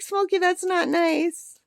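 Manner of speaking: high, slow mock scold. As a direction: chide the bird in a put-on voice. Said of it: "I'm like".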